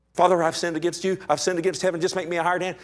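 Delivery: quick, urgent begging to his father; son's plea spoken out. Retold or imitated. Son pleading with father on his return, hurried and urgent. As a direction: rush the confession out, pleading. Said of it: "walked to the father and said".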